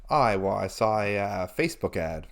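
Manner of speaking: low, halting cool-guy voice; put-on cool voice. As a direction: drop your voice to sound cool. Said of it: "this is just a voice you're doing".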